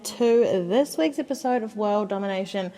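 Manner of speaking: talking while catching breath. Real, not acted. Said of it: "if I sound a little bit out of breath, I am".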